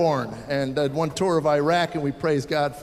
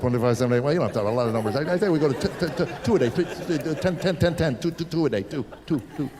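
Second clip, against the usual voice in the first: halting, lower, stammering numbers; confused counting kid; 4 semitones lower than usual. Pretend. Imagined son failing at math, mock stammering. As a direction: fumble the numbers like a lost kid.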